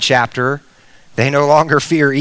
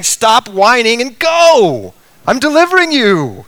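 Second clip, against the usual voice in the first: preacher voicing God's firm order, pitched up; commanding Lord; 6 semitones higher, 4 dB louder than usual. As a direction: push it out higher, like an order to get going. Voicing the Lord's impatient command.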